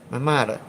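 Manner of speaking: "mother" said as "mah-duh"; Chicago "mother" with a hard D for the TH. Shown as a demonstration. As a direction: drop the TH in "mother" to a tapped D. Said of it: "Yeah, I do say that".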